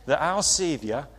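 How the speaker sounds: put-on quoting an old Sunderland mate in his accent, only partly managed; attempted Sunderland accent. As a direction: Bible college friend from Sunderland quoted, mild Sunderland accent. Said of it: "I can't exactly do his accent".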